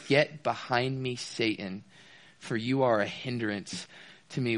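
slow, soft, grave rebuke; stern rebuke. Retold or imitated. Jesus rebuking Peter, a slow quiet stern rebuke. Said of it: "he says".

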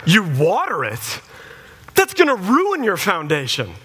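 hammed-up dire warning; mock horror. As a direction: imitate an appalled expert, stretching the words. Tree guy horrified at watering.

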